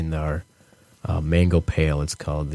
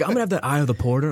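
mock customer voice; 7 semitones higher, faster than usual. Mimicking customers ordering.

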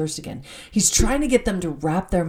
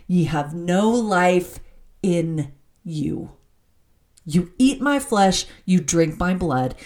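very clear, emphatic declaration. Acted. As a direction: drive each clause home as solemn scripture. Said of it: "He said very clearly".

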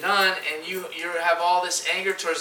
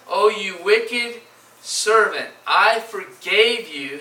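stern Lord rebuking; 3 semitones higher, slower than usual. Acted. Preacher voicing the Lord rebuking the wicked servant, slow and stern. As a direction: lay out each word like a judge pronouncing guilt.

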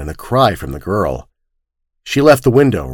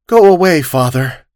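dull tones; 6 semitones higher, 3 dB louder than usual. Acted. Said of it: "In dull tones".

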